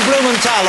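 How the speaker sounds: Blumenthal with a hard T, "-tal"; Blumenthal, plain T in the last syllable. Shown as a demonstration. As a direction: say Blumenthal ending like "tall". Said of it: "Tal or Thal?".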